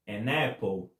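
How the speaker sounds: AN APPLE linked as one word, "a-NAPple"; linked sound. Shown as a demonstration. Teacher showing how prettily an apple joins, linked sound. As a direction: run the n of AN straight into APPLE. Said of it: "Olha como fica até bonitinho".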